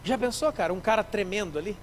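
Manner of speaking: normal talking voice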